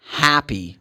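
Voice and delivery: "happy" with an open American A; American vowel. Shown as a demonstration. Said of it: "in American English".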